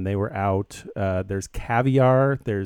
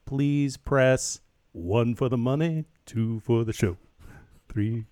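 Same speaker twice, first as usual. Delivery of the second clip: slow, stiff recorded-menu voice; automated phone voice. Retold or imitated. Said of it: "when I called the automated voice".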